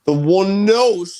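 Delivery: surprised echo. Real, not acted. Host echoes odd phrase.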